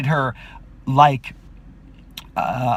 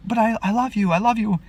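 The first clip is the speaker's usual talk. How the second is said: put-on pleading girl; 9 semitones higher than usual. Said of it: "And she's like".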